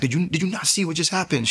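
frantic, high and rushed after waking from the vision; freaking out. Retold or imitated. Waking up weeping, he asks his ex in high panic. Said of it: "I'm freaking out".

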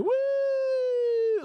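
very high, loud whooping cheer; dad's cheer. Retold or imitated. Dad cheering his son from the far end, loud whoop. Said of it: "go ... like this".

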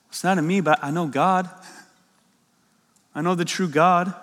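understated quote, evenly paced with pauses; calm, clear. Acted. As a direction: state it simply, without anger. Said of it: "He's calmly, clearly stating what is true".

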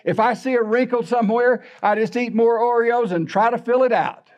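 quoting a friend. Retold or imitated. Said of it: "like Leo Wells used to say".

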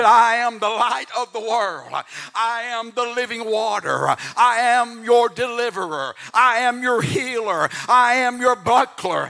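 preaching at full force. Acted. Preacher declaring God's names to the church, preaching at full force. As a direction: proclaim it like a rising altar call.

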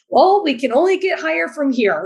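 high, bright encouraging lift; upbeat self-pep talk. Retold or imitated. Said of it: "I'm like".

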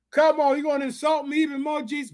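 high-pitched mock indignation; indignant protest. Woman insulted by Jesus's answer objects, indignant protest. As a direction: object in a high voice, dropping on the name.

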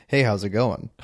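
lightly imitated white guy's casual greeting; a hint of an ordinary white guy; mock white-guy voice. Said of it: "he sounded like this".

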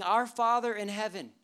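praying. Acted. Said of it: "Jesus is essentially praying".

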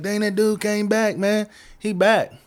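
wife bursting in to tell her husband, excited; excited news. Retold or imitated. Wife telling husband the stranger returned, excited.

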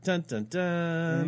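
slow, drawn-out dun dun dun; mock dramatic sting. Host reacting to co-host's secret, mock dramatic sting. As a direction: play a movie-reveal sound.

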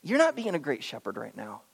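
soft, low, gentle reproof; quiet, tender word of correction; loving correction. Acted. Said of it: "would you just lovingly say".

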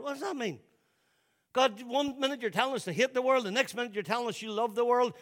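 high, exasperated questioning; baffled protest. Acted. Puzzled reader challenging God, baffled and exasperated. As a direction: plead your confusion, pitched high and pressing.

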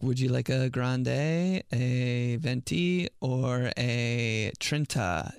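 slow, drawn-out barista voice; mock barista listing sizes; imitating barista. Dad mocking Starbucks barista's size names, slow. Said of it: "He's like".

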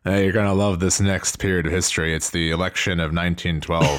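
lightly voiced bored teacher, slightly low. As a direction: drone like a bored history teacher. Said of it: "a bored teacher".

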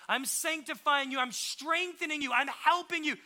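rally the listener, rising with each phrase; speaking belief. Acted. Holy Spirit to someone who blew it, emphatic encouragement. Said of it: "speak belief into you and to say".

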